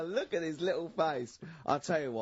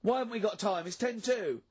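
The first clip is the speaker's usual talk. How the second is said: insistent pleading; 9 semitones higher, 5 dB louder than usual. Real, not acted. Pleading to do ritual segment.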